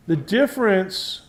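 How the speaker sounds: difference leaned on for the class; stress on difference. Shown as a demonstration. Physics teacher to students, stressing difference. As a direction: hit the word difference so it sticks. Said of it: "I'm emphasizing the word difference".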